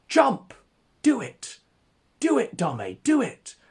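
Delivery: high, loud egging-on scream. Acted. Crowd urging Dame to jump, frenzied high scream. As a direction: yell him off the ridge like a bloodthirsty crowd. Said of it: "And we scream".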